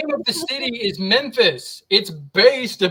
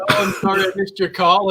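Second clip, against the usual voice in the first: light imitation of a bad French accent; mock the voicemail with a bad French accent. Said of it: "in a really bad French accent".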